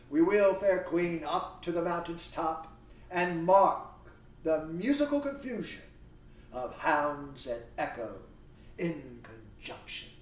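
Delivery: projected verse, easing off at the end; declamatory reading. Acted. Theseus invites his fair queen up the mountain, declamatory. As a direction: start strong, let the last phrase fall away. Reads Theseus's lines aloud.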